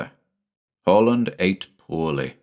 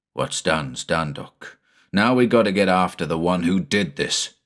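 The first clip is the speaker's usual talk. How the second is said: Quinlan, determined. Acted. Quinlan voiced in story.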